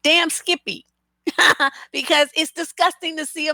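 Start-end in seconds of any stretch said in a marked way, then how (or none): 1.2-1.8 short amused laugh. Real, not acted. Laughs at own remark.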